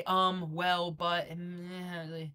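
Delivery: hesitant, whiny mock mumbling; mock moaning. Coach mimicking a viewer's excuses, mock moaning. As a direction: moan the filler words like a mock slacker. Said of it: "You sound like you're moaning".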